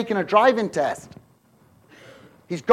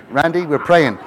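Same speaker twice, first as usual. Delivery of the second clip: stern wife; 3 semitones lower, 5 dB louder than usual. Retold or imitated. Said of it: "I saw Gloria put her hands on her hip".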